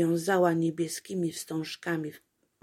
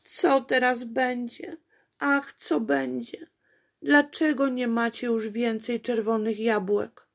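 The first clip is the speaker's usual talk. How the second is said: higher, louder anxious cry; distressed calling; 5 semitones higher, 4 dB louder than usual. A narrator's reading. Apolejka crying out to the bare apple trees, distressed. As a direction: plead with the empty trees. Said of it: "wołała do jabłonek".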